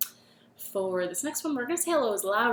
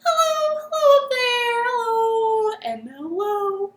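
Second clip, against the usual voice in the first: much higher, loud greeting; high hello; 12 semitones higher, 8 dB louder than usual. Shown as a demonstration. Host greets kids in the highest voice she can. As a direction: call it up high. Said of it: "Let's say hello as high as we can".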